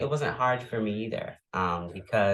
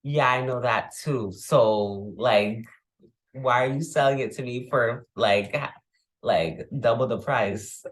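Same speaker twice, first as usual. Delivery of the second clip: calling out the price; 4 dB louder than usual. Retold or imitated. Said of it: "you'll be like".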